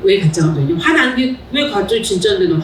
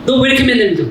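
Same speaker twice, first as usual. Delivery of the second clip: sharp, raised complaint to a late husband; irritated complaint; 5 semitones higher, much faster than usual. Retold or imitated. Wife scolds husband for coming home late, mildly angry. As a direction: snap at him for always coming home late. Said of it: "그래서 화를 내요".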